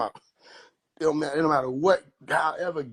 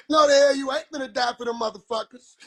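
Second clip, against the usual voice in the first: mama voice; 8 semitones higher, 3 dB louder than usual. Acted. Hood mama scolding her son.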